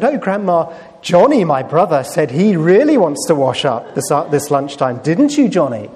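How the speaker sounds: lightly voiced sweet-talking sister, lifted at the start; scheming sister. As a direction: put on a hint of a little sister setting up her brother. Tattling sister volunteers brother in story.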